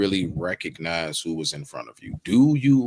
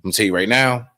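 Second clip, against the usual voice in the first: louder, higher, half-joking blunt rant to a woman; mock loud rant; 4 semitones higher, 6 dB louder than usual. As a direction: hammer it out like a fed-up guy laying down terms. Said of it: "be like".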